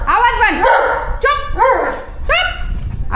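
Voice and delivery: sharp high hush to the dog; high shushing. Real, not acted. Woman hushing her barking dog, high and sharp.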